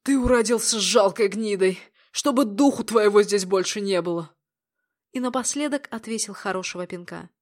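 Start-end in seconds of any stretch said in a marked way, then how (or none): 0.0-4.3 hard loud banishing words; cold angry order. Acted. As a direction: throw him out coldly. Throwing brother out.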